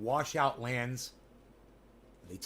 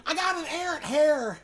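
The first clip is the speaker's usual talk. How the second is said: much higher, louder, recited like poetry; mock poetic high voice; high sing-song recital; 13 semitones higher, 6 dB louder than usual. Shown as a demonstration. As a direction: declaim it like a line of verse. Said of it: "It's like poetry".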